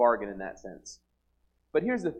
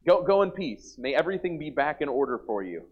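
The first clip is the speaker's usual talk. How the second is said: breezy mock blessing; 3 semitones higher, 3 dB louder than usual. Preacher mimicking Eli's breezy blessing to Hannah, loud and glib. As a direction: toss the blessing off like it fixes everything.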